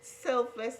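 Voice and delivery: high and fast, laughing through it; giggling retelling of her own puzzled reply; laughing disbelief. Retold or imitated. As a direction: laugh at how absurd it seemed.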